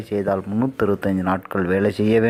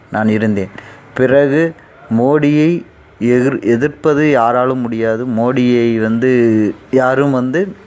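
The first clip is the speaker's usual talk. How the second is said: thunderous political oratory; 4 dB louder than usual. Acted. Mock politician addressing rally crowd.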